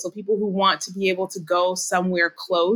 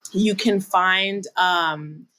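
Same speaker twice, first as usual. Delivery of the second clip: frog in throat. Real, not acted. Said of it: "my throat is tickling me".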